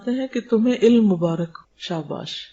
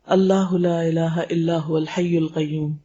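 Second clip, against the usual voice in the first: slow recitation; 3 semitones lower, slower than usual. Acted. Teacher quoting the Prophet's answer, slow reverent recitation. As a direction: draw out the Arabic verse slowly and reverently. Reciting Quranic verse slowly.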